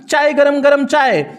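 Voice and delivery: a hint of a train vendor calling out; tea vendor's call. Shown as a demonstration. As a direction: sell the tea like a platform chaiwala. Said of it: "ऐसे बोलते हैं ना".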